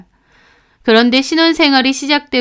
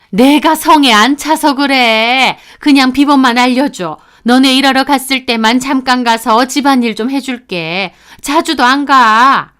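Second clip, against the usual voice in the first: louder, insistent mother-in-law; 3 semitones higher, 4 dB louder than usual. Acted. Mother-in-law presses daughter-in-law for door code, insistent. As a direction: push past the refusal, drawing out the endings.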